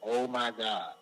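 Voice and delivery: low, softly stunned; quiet, low retold disbelief; hushed awe. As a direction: say it under your breath, amazed at what you heard. Stunned DJ hearing the hit.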